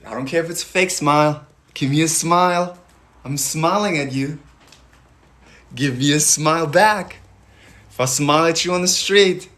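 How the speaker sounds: bright energetic coaching; upbeat pep talk. Real, not acted. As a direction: coax a smile out of them. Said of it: "energetic smile pep".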